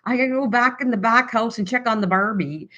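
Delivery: imitating an Aussie stereotype; lightly put-on Australian accent. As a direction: say it like a mock Australian. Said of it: "if you're from Australia, you're gonna go".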